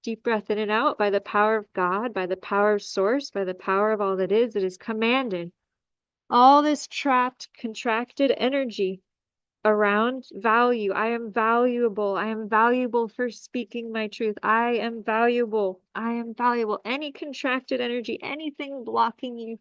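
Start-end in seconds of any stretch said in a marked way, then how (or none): 1.0-5.5 healing command. Acted. 10.9-16.8 guided affirmation. Acted. Leads affirmations.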